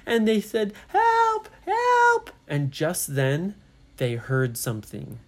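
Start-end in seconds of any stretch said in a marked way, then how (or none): 0.9-2.3 high, loud storybook yelps; desperate cry for help. Acted. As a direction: call out in alarm, pitched way up. Trapped children call for help.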